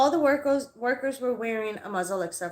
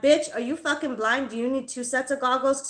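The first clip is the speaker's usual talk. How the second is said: heated mock-incredulous challenge; retold angry comeback; 3 semitones higher than usual. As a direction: replay the scornful questioning, slightly raised. Acted quarrel with the clerk.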